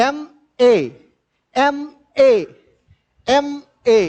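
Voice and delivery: ఎంఏ said as "em-ay", opening on a clear vowel "e"; teacher drills ఎంఏ aloud so students hear the "em" vowel sound; vowel-initial em sound. Shown as a demonstration. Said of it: "ఈఎంగా sound వస్తుంది".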